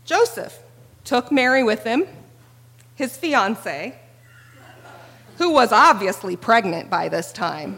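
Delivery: bright, chatty modern retelling; casual modern reading. Retold or imitated. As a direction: read it like a modern paraphrase. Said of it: "they hear instead".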